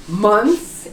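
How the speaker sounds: Months with a clear th before s; months demo. Shown as a demonstration. Teacher models Months for learners, carefully. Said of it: "if you say months, it sounds perfect".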